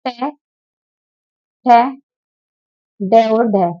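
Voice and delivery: टे, ठे, डे, ढे said one by one with pauses; sounding out letters. Shown as a demonstration. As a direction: sound out टे ठे डे ढे slowly, one at a time. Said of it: "हमारा जो री होता है".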